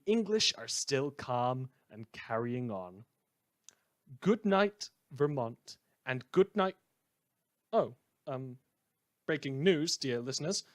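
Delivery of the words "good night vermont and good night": bright, louder sign-off with the pitch lifted on good night; cheery on-air goodbye; radio sign-off. Acted. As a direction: send the listeners off with a flourish.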